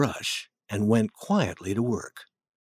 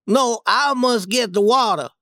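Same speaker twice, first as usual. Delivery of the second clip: put-on higher boyish voice saying no; refusing boy; 11 semitones higher, 4 dB louder than usual. Jim refuses Tom's offer, higher boyish voice.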